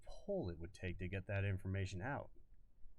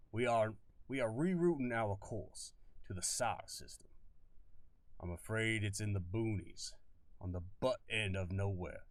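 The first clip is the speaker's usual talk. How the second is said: lightly Southern colonel; easy Southern drawl, matter of fact; faint Southern drawl. Acted. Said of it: "He had the old faint drawl".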